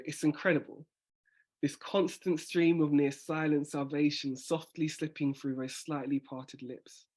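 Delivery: slow poetic read with a pause after "incredible"; revised recital. Shown as a demonstration. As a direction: read the revised lines gently. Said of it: "that sounds better".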